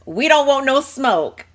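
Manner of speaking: loud high pleading hey hey hey; hammed-up plea for peace; mock panicked Aisha. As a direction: back off, we don't want trouble. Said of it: "she's like".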